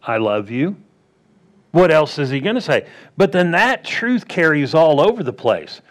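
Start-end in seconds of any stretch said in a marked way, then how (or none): 0.0-0.8 softer lower I love you. Retold or imitated. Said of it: "What else can he say?".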